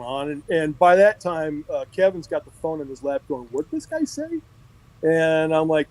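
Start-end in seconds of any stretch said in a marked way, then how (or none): 3.5-4.4 high, softened puzzled aside; retold incredulous question. Boss aside from his phone call, incredulous. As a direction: imitate a baffled boss, pitched up and hushed.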